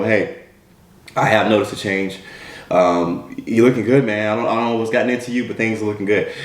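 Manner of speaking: put-on straight, low-key boss in own accent. Boss tells employee he noticed the change, serious. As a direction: drop the joke and say it seriously. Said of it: "on a more serious note".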